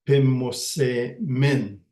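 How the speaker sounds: "pimose min" drawn out slowly; careful slow demo. Shown as a demonstration. Teacher repeating the plural ending for learners, slow. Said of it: "teaching the word".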